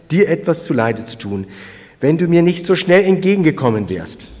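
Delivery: loud, fervent blessing; David calling out. Retold or imitated. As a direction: proclaim with grateful fervour. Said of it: "sagt er noch einmal". (David segnet Abigail laut und feierlich)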